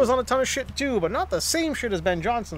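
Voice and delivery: lightly voiced old-time detective; a hint of a forties gumshoe patter. Telling the Ben Johnson doping story, lightly voiced forties detective. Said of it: "you sound like a detective from the nineteen forties".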